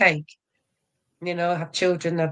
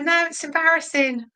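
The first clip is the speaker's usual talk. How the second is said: embarrassed son; 11 semitones higher than usual. Retold or imitated. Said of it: "He's like".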